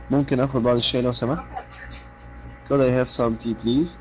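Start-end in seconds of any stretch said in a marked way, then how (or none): 2.7-3.9 slow, evenly paced polite order, rising on please; a teacher repeating a tea order for students, calm and slow. Shown as a demonstration. Calm polite request. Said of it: "وبتكلم بهدوء كده".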